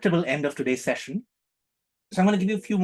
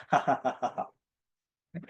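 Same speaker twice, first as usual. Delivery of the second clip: mock laugh; 4 dB quieter, much slower than usual. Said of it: "they look and say".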